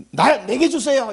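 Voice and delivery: high, drawn-out imitated plea; mock eager plea. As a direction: act out begging, half laughing. Acts Hannah begging God for son. (웃음 섞어 높고 길게 조르는 흉내)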